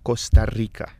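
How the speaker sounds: コスタリカ said as the native Spanish name Costa Rica; native pronunciation. Shown as a demonstration. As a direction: give コスタリカ its correct Spanish pronunciation, firmly. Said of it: "正しい発音が".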